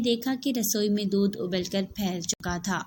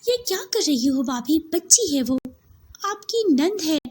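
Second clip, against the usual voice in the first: louder, higher, indignant protest; angry rebuke; 8 semitones higher, 5 dB louder than usual. Acted. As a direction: confront the cruel sister-in-law. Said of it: "गुस्से से यास्मीन से कहा". (गुस्से में भाभी को टोकती सायरा)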